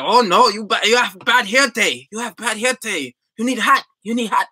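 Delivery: high-pitched mock Asian accent. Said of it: "that's my best Asian accent".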